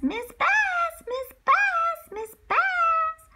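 high calls to the teacher by name; calling out. Acted. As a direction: call her urgently across the room. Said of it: "I yelled at Miss Bass".

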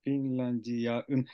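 slow Finlandiaun with aun drawn out; slow repeat. Shown as a demonstration. Learner repeats the corrected word slowly. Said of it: "we say".

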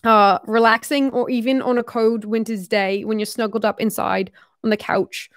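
attempted Australian accent drifting British; Australian accent slipping into British. Shown as a demonstration. Reading about lazy winter days, Australian accent going British. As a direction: let the imitation Australian accent slide towards British. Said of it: "I'm going into British now".

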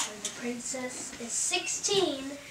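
mild menace of a storybook villain; a hint of a wicked fairy's curse. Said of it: "smiled a terrible smile".

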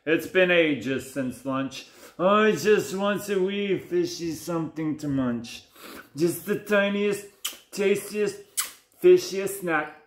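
sly shark begging for a tiny snack; wheedling smiling shark. Acted. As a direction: sweet-talk the prey, word by word. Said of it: "smiled the shark".

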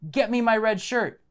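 understated acted yell; mock captain's yell. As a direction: call out a command as a storytelling captain. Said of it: "The captain yells".

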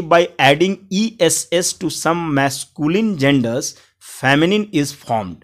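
slow, word-by-word dictation of the rule; slow rule reading. Shown as a demonstration. Teacher dictating the grammar rule to students, very slow. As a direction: read the rule out slowly for students to copy.

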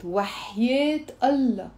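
earnest oath, Allah stressed and falling; sincere oath. Shown as a demonstration. Teacher shows students a sincere oath. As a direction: say وحياة Allah as a real promise. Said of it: "Look how I'm saying it".

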